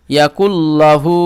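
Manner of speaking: slow chanted ইয়াকুল্লাহু; recited slowly. Shown as a demonstration. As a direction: draw ইয়াকুল্লাহু out evenly. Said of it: "হা উল্টো পেশ হু".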